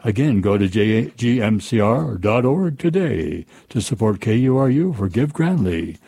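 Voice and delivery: smooth radio announcer read; radio promo read. Acted. Reads station fundraising promo.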